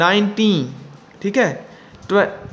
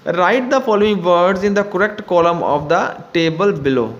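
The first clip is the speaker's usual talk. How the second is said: slow, careful reading of the instruction; slow textbook reading; much slower than usual. Acted. Teacher reading the book to students, slow and careful. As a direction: read it out slowly for the class. Reads exercise instruction aloud.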